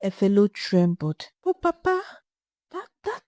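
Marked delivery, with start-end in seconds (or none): 1.4-3.2 horrified stammer. Acted. Horrified daughter stammers protest.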